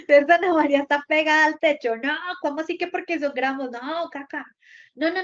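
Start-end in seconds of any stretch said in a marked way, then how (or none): 0.1-2.0 teasing call-out. Real, not acted. Teasing hyper student.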